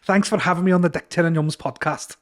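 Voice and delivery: a light Scouse accent, put on for the host; a hint of a Scouse undertaker, said on the spot. Shown as a demonstration. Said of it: "give us a few lines there".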